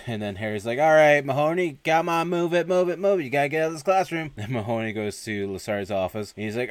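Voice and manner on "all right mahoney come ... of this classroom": louder, higher hurry-up commands; mock drill instructor hustling someone along; retold barked orders. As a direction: bark it out, urgent.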